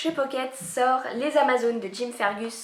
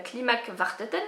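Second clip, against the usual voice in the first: Klimak Varteten said with a self-mocking Norwegian accent. Real, not acted. Book fan proudly saying the Norwegian series title Klimak Varteten, in a Norwegian accent. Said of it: "avec mon bel accent norvégien".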